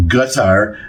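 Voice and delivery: Qatar stressed on the first syllable, KA-tar; official Qatar. Shown as a demonstration. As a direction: put the weight on the opening syllable of Qatar. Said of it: "accent is always on the first syllable".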